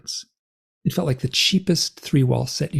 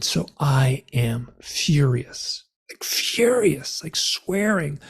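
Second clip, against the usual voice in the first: drawn-out, half-whispered emphasis; emphatic fury; much slower than usual. Retold or imitated. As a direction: stretch each angry word slowly. Describes own fury, drawn out, hushed.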